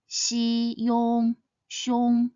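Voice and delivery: "Xi", "yong" blended into "xiong"; blending syllable parts. Shown as a demonstration. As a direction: build "xiong" from its parts slowly. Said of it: "consists of the initial xi and the final yong".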